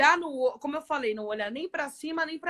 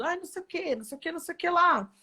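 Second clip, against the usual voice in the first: mock timid self; 5 semitones higher, faster than usual. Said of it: "e eu falando".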